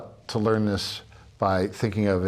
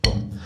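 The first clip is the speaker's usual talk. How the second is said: chanted accent hit. Shown as a demonstration. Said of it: "So it's".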